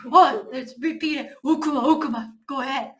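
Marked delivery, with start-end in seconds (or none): 1.4-2.3 우쿠마 chanted like a caveman. Shown as a demonstration. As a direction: grunt 우쿠마 twice, caveman style. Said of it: "원시인처럼 두 번 따라해보세요". (원시인처럼 우쿠마 두 번)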